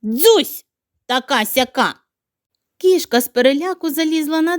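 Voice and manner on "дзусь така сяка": shooing hush. Acted. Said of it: "як на неї цитьне".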